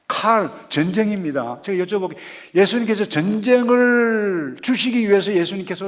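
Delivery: loud, high preaching with stretched key words; full-force preaching. Real, not acted. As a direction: thunder it out to the congregation.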